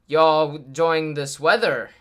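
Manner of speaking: slow, loud imitation of an awkward stranger; awkward small-talk voice, stretched out; real awkward. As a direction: imitate a man making clumsy small talk, drawn out. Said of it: "Like, real awkwardly. He said it kinda like that".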